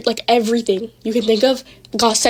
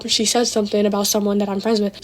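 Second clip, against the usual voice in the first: ordinary talk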